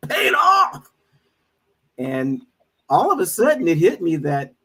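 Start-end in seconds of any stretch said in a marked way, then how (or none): 0.1-0.9 much higher, louder Trinidadian exclamation; emphatic Trinidadian cry. Retold or imitated. Friend triumphantly finishing his boast, in a loud Trinidadian accent. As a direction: crow the ending in the Trinidadian voice. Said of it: "he's making all these faces while he's talking".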